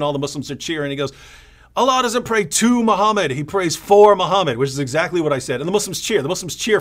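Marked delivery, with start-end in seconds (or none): 1.7-4.6 schooling tone. Retold or imitated. Imitating the Muslim debater correcting David, higher, louder, lecturing. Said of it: "in the right voice with the right intonation".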